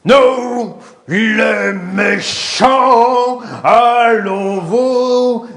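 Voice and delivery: slow menacing villain chant. Pretend. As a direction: drag it out like a cartoon baddie. Villain role, musical.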